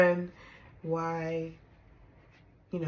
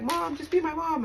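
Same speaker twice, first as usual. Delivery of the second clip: pleading daughter; 10 semitones higher than usual. Retold or imitated. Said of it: "Me being like".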